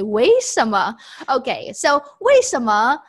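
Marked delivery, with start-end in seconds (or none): 0.0-1.0 put-on surprised Westerner accent. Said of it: "When they are surprised, they tend to say".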